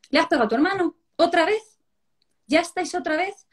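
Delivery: mock exasperated parental telling-off; fed-up mother. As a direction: scold like a mum at the end of her patience. Mother scolds in acted scene.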